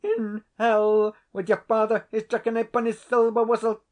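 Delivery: cornered tenant explodes at the laird; furious outburst. A narrator's reading. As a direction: hurl it at the laird in desperation. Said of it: "driven to extremity".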